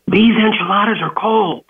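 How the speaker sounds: high-pitched mock scream at the counter; retold scream. Customer screams at the manager about cold enchiladas, high mock yell. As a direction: shriek it like an angry customer. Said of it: "slams the enchiladas on the counter and screams".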